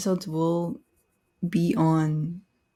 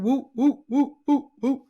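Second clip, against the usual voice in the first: high, loud celebratory whoops; cheering woo; 6 semitones higher, 4 dB louder than usual. Real, not acted. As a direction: cheer like you hit a milestone. Celebrating twentieth episode.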